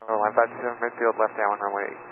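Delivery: quiet radio report; over a cockpit radio; pilot cockpit headset. Real, not acted.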